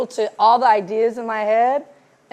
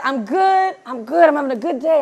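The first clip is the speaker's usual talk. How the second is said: imitating a friend, higher and lilting; extra sparkle; 4 semitones higher than usual. Friend answering a check-in call, sparkling cheer. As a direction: put a happy sparkle in the voice. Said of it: "a little extra sparkle in your voice".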